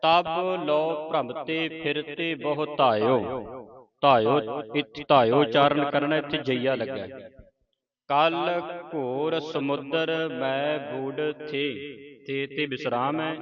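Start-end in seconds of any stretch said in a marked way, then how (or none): 0.0-3.2 slow, measured verse recitation; slow devotional reading; scripture recitation. Shown as a demonstration. 8.1-11.6 slow, measured verse recitation; slow devotional reading; scripture recitation. Shown as a demonstration.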